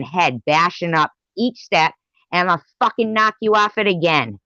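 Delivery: loud, high, rising rage; furious threat. Real, not acted. Threatening the rival, rage building.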